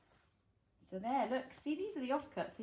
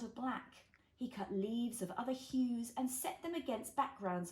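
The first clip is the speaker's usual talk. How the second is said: put-on reading to a toddler. A narrator's reading. Reads picture book to child.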